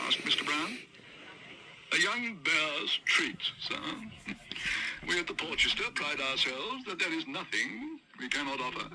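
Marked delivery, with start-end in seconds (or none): 1.9-8.9 lightly voiced snooty waiter; head waiter. Waiter grandly tells Mr Brown the restaurant offers anything.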